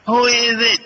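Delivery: shouted. Acted. Angry wife startled by someone behind her, shouting. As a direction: snap it out as if someone surprised you. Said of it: "she shouted".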